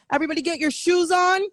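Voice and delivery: hammed-up hostess kicking guests out; mock party host. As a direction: herd everyone out the door like a fed-up host.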